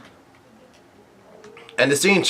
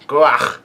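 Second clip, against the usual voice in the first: mock pained "guach"; half-hearted yelp of pain, briefly imitated; imitated cry of pain. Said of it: "someone's yelling out in pain".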